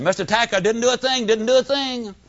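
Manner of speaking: a lightly voiced kid insisting he's innocent; protesting. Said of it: "he walked in protesting".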